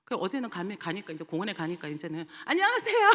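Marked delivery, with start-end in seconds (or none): 2.4-3.1 much higher, loud, sing-song hello; child greeting the teacher, high and bright; cheery kid greeting. Retold or imitated. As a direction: chirp it like a happy child. Kids now greeting them.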